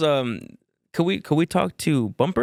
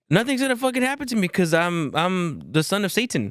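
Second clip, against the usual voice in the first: imitating cocky uncle; 3 semitones higher than usual. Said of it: "he's just like".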